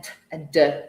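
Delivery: "t" as bare sound, "d" with voice; unvoiced then voiced sound. Shown as a demonstration. Teacher contrasting consonant pairs, "t" voiceless and "d" voiced. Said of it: "voiced and unvoiced consonants".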